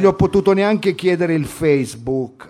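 lightly voiced slangy student; brash student character. Student recounting missing the last bus, brash character. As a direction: tell it like a cheeky street kid. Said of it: "Devo entrare nel personaggio".

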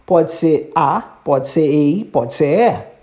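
teacher stretching each vowel; slow, clear. Shown as a demonstration. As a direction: slowly sound out ei, a and é. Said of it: "como eu disse". (devagar, como quem ensina vogais)

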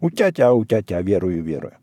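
lightly put-on womanish sing-song. A narrator's reading. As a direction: echo it as a dance call in a mock woman's voice. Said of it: "бабьим голосом громко вторил".

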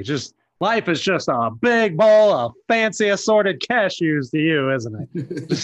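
hammed-up cartoon anger; angry. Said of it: "So Patrick is angry".

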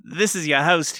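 booming thirties radio host; old-timey radio announcer. Acted. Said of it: "This is my previously on The Legend of Korra voice".

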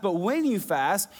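"when" leaned on with a rising lift; stress on when. Shown as a demonstration. Pastor to congregation, stressing "when" with a rise. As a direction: push the word "when" with a rise. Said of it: "not if you fast".

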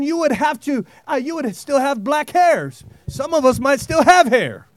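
rising, emphatic preaching voice with amens. Acted. Pastor preaching to the congregation about the Holy Spirit, fervent. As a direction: drive the message home to the congregation.

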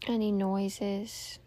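calm meditation guide with long pauses; guided meditation. Real, not acted. Host guiding listeners to tune out noise and breathe, meditative.

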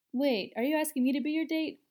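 high, loud astonished question; surprised. A narrator's reading. Daphne realising Eddie is asking her out, surprised. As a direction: caught off guard, voice jumps up. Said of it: "Daphne seemed surprised".

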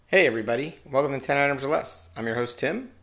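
flat, stiff robotic delivery. Acted. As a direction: read it like a robot. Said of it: "Why am I talking like a fucking robot?".

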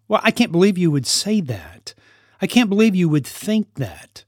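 mildly incredulous mock scolding; shaming. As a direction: act out a parent shaming a child. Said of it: "those are shaming words".

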